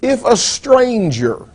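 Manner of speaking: "stranger" set apart with deliberate emphasis; stress on stranger. Real, not acted. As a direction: lean on the word "stranger", then pause. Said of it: "I emphasize the word stranger".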